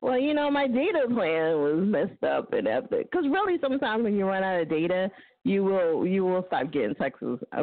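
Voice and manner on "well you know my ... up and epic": slow demo excuse. Shown as a demonstration. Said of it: "See, I'm about to school y'all some shit".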